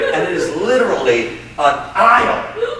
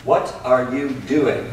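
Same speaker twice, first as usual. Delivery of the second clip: slow, drawn-out question rising at doing; slow and curious; 3 semitones lower, 3 dB quieter, slower than usual. Shown as a demonstration. Teacher demoing another take, slow rising question. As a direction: stretch it out, wondering. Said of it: "How about this?".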